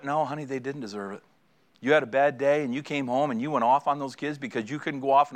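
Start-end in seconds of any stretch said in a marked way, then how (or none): 0.0-1.2 gentle correction. Retold or imitated. Wife calmly overrules his protest.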